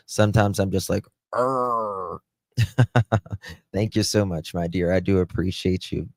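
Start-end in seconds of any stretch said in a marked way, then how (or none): 1.3-2.2 a short mock angry "Arr" growl; playful growl. Shown as a demonstration. Streamer showing chat how she gets fired up, mock growl. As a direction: growl it out to show you're fired up. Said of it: "I get fired up sometimes".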